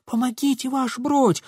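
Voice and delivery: high, lightly voiced plea; a hint of a girl calling for help; mock cry for help. Girl retelling her friend's cry, high. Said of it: "Марьянка к нему кричит".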